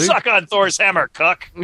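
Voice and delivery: slow, hammy dubbed hero line; a hint of an over-dubbed epic warrior; bad movie dubbing. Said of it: "Cameron Mitchell with a dubbed voice".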